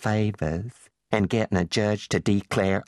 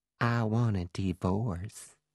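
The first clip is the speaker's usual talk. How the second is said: put-on sexy, slow, hushed, very drawn-out sultry southern accent; 7 dB quieter than usual. Reading dialogue, one newlywed tells the other in the mansion hallway: sexy, sultry southern accent. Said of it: "Sexy, sultry southern accent".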